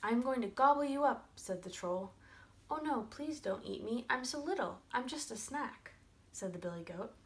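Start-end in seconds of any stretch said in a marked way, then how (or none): 0.0-1.3 loud, higher-pitched troll threat; threatening troll. Acted. Troll threatens the little goat. 2.7-5.9 higher-pitched little goat plea; pleading little goat. Acted.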